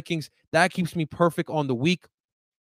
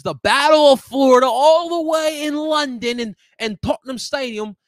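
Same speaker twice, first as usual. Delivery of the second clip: hype announcer; 9 semitones higher, 7 dB louder than usual. Acted. Hyping up a matchup.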